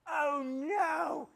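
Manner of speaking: high, loud cry of dismay; shocked wife. Retold or imitated. Wife learning of twins, a high loud cry. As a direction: yelp it like the news just hit.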